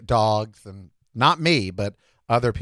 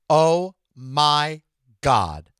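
long, drawn-out swoon; much slower than usual. Real, not acted. Swooning over the cute cop, drawn-out.

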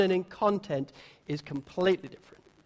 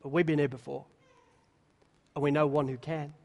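said with a smile; 6 semitones lower, 4 dB louder than usual. Retold or imitated. Disciples telling the Lord they trust him, smiling. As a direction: smile through a humble admission. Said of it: "It's said with a smile".

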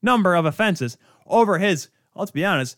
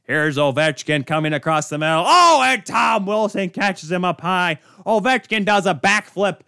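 a hint of hockey commentator, excitement fading into indifference; Jack Edwards. Host mimicking a biased announcer calling a hit, lightly voiced play-by-play. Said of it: "He, Jack Edwards, on the call".

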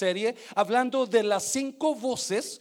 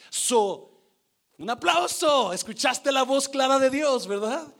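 acted praise; 3 semitones higher, 4 dB louder than usual. Voices Jesus congratulating Peter.

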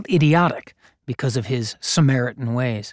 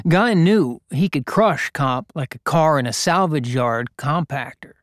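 ordinary delivery

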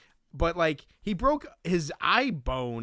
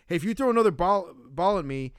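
louder, higher, fast mock warning; mock angry warning; 3 semitones higher, 4 dB louder, faster than usual. Warning Roy not to throw another ball, fast mock anger. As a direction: snap a quick threat back at him. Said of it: "gets mad now".

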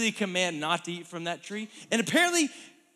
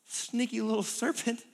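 lightly raised, pleased Eve; voicing Eve; 3 semitones higher than usual. Eve telling herself she's fine, lightly voiced. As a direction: sound surprised you're still fine.

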